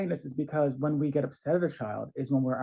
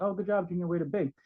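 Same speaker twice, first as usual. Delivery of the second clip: bored praise; 3 semitones higher than usual. Retold or imitated. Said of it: "That's boring".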